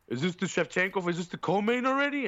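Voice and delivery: high, drunken mock fan voice. Imitating drunk fans behind him asking about the co-main. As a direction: ham up the clueless drunk fans.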